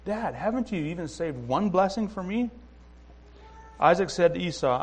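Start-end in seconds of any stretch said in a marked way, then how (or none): 0.1-2.5 a touch of a son's heartbroken pleading; mildly voiced heartbroken son pleading with his dad; heartbroken plea. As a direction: ask it like a hurt son begging his father. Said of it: "Esau is heartbroken".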